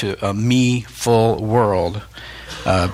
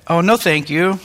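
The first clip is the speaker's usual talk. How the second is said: polite reply; 6 semitones higher than usual. Pretend. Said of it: "I should have said".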